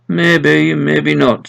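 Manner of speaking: wry Dales farmer voice; doubtful old farmer. Acted. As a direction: cast doubt slowly.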